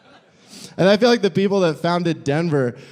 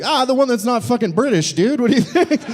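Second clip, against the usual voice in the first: mock exasperated; 8 semitones higher than usual. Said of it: "And it's like".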